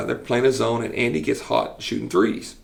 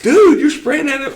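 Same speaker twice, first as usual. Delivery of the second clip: mock scolding; 6 dB louder than usual. Nurse scolding the coach.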